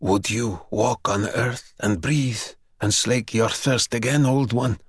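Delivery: put-on the young man begging the vampire for his parents' story; eager plea. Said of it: "young man bargains with vampire".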